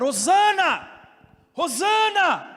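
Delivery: high, loud Hosana call; children shouting Hosanna. Retold or imitated. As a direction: cry Hosana like excited kids. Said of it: "começaram a gritar".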